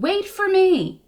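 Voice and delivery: high, slow pleading call. Acted. Little fish begging the rainbow fish to wait, slow high call. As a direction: stretch it out as you chase him. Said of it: "he called".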